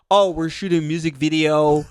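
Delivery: a light put-on proper, professional voice; mildly mock-polished, trying to sound professional; white voice. To the gang member asking why they're there, a light mock white voice. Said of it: "I put out my white voice".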